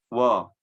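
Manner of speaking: Wo said as round, dark wo; rounded wo sound; wrong thick waw. Shown as a demonstration. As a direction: demo the mistake: Wo, not wa. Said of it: "Itu jangan sampai seperti itu".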